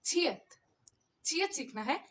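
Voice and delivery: छियत with a breathy ch, ending in a clear t; letter name demo. Shown as a demonstration. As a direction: repeat छियत for the class. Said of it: "तो आज हमने क्या सीखना है?".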